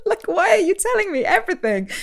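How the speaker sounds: high, loud comic wail; hammed-up, squealed protest; mock exasperation. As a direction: complain at the top of your range. Acted protest at the podcast.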